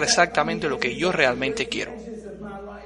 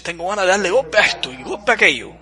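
put-on restless teen; 2 semitones higher, 3 dB louder than usual. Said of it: "Y tú dices, Los adolescentes".

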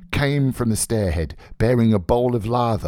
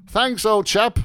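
high, loud brisk thanks; brisk cry; 13 semitones higher, 5 dB louder than usual. Acted. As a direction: call out briskly, pitched well up. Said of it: "he cried briskly".

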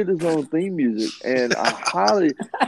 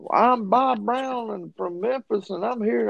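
generic wrestler promo; 9 semitones higher than usual. Retold or imitated. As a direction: ham up a dumb wrestler promo. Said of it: "so many wrestlers were, you know, basically like".

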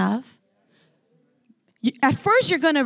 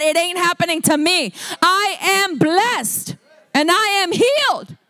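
preaching declaration. Acted. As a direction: proclaim it with rising fervor.

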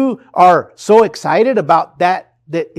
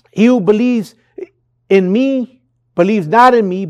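cried out; 4 semitones higher, 3 dB louder than usual. Retold or imitated. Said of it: "Jesus cried out and said".

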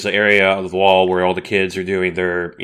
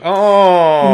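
unimpressed oh; 9 semitones higher, 5 dB louder than usual. Retold or imitated. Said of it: "and you're like".

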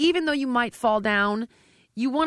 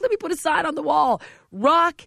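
high, loud, slowing on the last words; mock announcement; 9 semitones higher, 7 dB louder than usual. Trainer mocking a contestant's rock bottom, high and loud. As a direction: proclaim it like a sign on the wall. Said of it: "I'm like".

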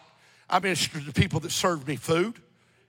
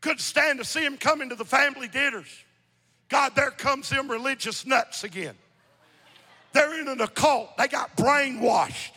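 forceful preacher voicing objections; insistent pulpit delivery; preaching; 7 semitones higher than usual. Real, not acted. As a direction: throw out the scoffers' complaints from the pulpit. Preaches, mocking family objections.

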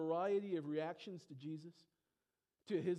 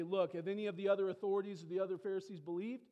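louder, indignant lecturing; mock furious Pharisees; 2 semitones higher, 6 dB louder than usual. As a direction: play the angry leaders scolding. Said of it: "And they say".

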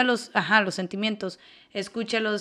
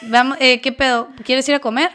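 breezy topic change; 3 semitones higher, 8 dB louder than usual. Acted. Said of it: "Cambio de tema".

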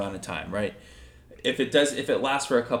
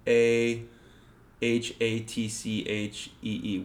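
slow, letter by letter; spelling it out; slower than usual. Shown as a demonstration. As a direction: spell each letter out slowly. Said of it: "How do you spell that?".

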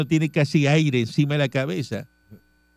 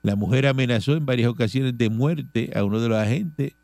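measured radio news reading; 3 semitones lower than usual. Real, not acted. Host reading charges to the audience, news read. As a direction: read out the police report evenly.

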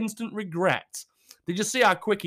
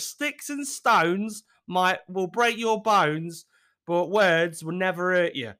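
reciting saying; slower than usual. Shown as a demonstration. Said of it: "There's an old saying".

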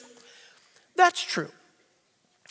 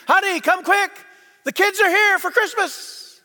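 higher-pitched call to a spouse; excited holler, pitched up; calling out excitedly; 7 semitones higher than usual. Acted. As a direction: call out the happy news across the house.

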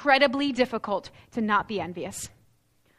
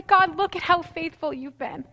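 grateful prayer; 5 semitones higher than usual. Pretend. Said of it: "Or I could say".

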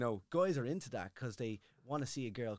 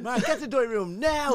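louder, higher mock summons; announcer voice; 10 semitones higher, 10 dB louder than usual. Producers summoning Mark, mock loud announcement. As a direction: call him in like a show announcer. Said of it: "they were like".

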